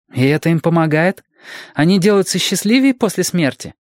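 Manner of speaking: put-on high, earnest child's questions; high-pitched boy wanting to understand; inquisitive little boy. A narrator's reading. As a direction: press on as a curious small boy. Boy keeps questioning guardian.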